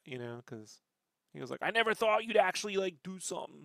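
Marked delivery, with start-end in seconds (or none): 1.6-3.6 high-pitched happy amazement; Pat Duffy. Retold or imitated. Shop owner seeing artist's booth, imitated happy surprise. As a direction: imitate someone pleasantly astonished by a friend. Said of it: "he was really happy to see that".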